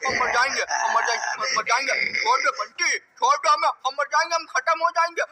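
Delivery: wailing hai re and pleading to be let go; a terrified father gasping that he'll die; panicked begging. Acted. Father being strangled, begging. (घबराकर गिड़गिड़ाना)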